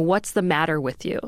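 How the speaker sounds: plain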